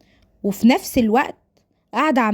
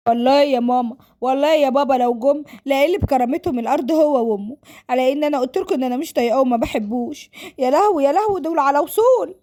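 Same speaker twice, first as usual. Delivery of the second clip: mildly acted threat turning to alarm; exasperated daughter warning her parents; protesting daughter; 4 semitones higher than usual. Voices Sara threatening, then panicking.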